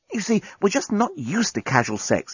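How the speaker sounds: high, light alien voice; smooth-talking alien man; assuring alien. Acted. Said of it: "he was assuring her".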